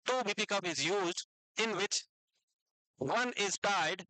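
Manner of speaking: very slow, word by word; slow dictation. Shown as a demonstration. Teacher dictating notes to students, very slow. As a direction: dictate so they can write along. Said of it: "धीरे धीरे बोलूंगा".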